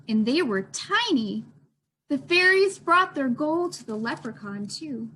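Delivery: gentle, expressive picture-book narration; storytime reading. A narrator's reading. Librarian reading a leprechaun story to children, expressive. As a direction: read it to the little ones at storytime.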